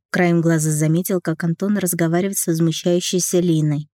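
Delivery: plain reading voice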